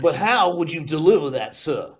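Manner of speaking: lightly put-on judge addressing court; a touch of courtroom pomp; judge accent. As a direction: press the witness in mock judge accent. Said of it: "What would your judge accent be".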